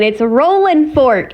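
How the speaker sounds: "Rolling" said the local way, slowly; local pronunciation. Shown as a demonstration. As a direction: show the hometown way to say "Rolling Fork". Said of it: "If you wanna say it like the locals".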